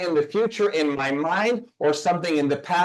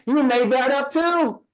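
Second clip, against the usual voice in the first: emphatic; 7 semitones higher, 3 dB louder than usual. Real, not acted.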